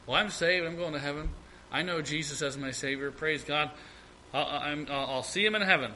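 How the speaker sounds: lightly mocking a contented believer; complacent believer. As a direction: voice a self-satisfied Christian, quiet and easy. Mocks complacent Christians.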